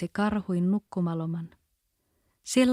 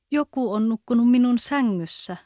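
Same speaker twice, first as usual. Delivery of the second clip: louder, higher gruff papa bear; rough voice; 4 semitones higher, 6 dB louder than usual. A narrator's reading. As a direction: boom it out as the rough father bear. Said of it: "krouvilla äänellä". (karhean karhuisän ääni, kovempi ja korkeampi)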